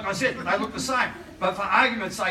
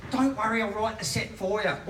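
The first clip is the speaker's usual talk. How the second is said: lightly voiced stereotypical gay therapist; a hint of a camp stereotype; stereotypical gay man. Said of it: "I'm doing that accent 'cause he's gay".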